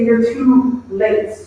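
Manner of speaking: drawn-out, very slow mourning words; slow mourners. Retold or imitated. Mourners telling Jesus it is too late, very slow. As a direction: stretch each word like grieving mourners. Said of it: "they say".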